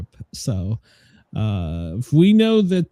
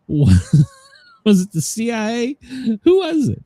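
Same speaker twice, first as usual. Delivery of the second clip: high-pitched mock questioning; mock nosy media; 7 semitones higher than usual. Host mimics the media wanting to know who did it, mock-inquisitive. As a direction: imitate pestering reporters, pitch climbing. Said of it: "now the media wants to know".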